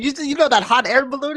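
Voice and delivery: high-pitched imitation of the uncle; proud uncle pointing out the town, voiced high.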